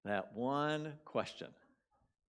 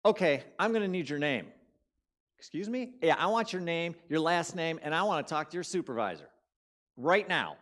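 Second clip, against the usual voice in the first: loud, sharply higher, demanding the supervisor; angry demand; 5 semitones higher, 7 dB louder than usual. Retold or imitated. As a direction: fire it back at the phone agent, indignant. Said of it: "I'm mad".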